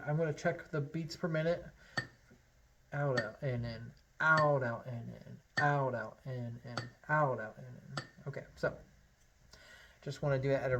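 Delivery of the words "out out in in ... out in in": steady chant of out, out, in, in; counting the rhythm. Shown as a demonstration. Teacher counts along with the metronome, steady chant. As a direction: count the breaths evenly with the beat. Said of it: "I'm gonna play it a little bit so you can lock in".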